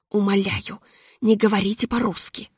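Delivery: ordinary delivery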